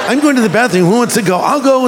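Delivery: playful mock girl chatter; imitated chatty girls. Imitates girls heading to bathroom.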